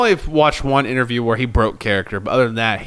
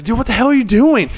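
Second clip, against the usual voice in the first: exasperated Hangman; 11 semitones higher, 4 dB louder than usual. Retold or imitated. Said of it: "he's like".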